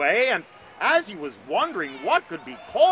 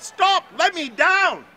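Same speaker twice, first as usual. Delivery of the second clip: much higher, loud panicked yell; terrified shout; 11 semitones higher, 6 dB louder, slower than usual. Acted. Astor shouts at the bird carrying him into the sky, terrified. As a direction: scream to be put down, terrified. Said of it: "He shouted out".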